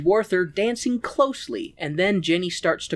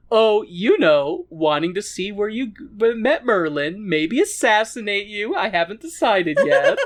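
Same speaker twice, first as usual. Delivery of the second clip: smug Mordred; 4 semitones higher than usual. Retold or imitated. Mordred taunting his father, mildly sly and smug. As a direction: tease him like a sly villain.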